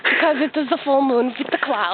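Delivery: winded, talking between breaths; breathless after a walk. Real, not acted. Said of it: "I'm still out of breath".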